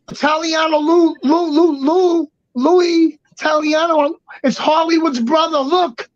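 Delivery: high-pitched imitation of someone calling; imagined brother calling. Imagined brother calls up to Lou, mock calling out. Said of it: "he's like".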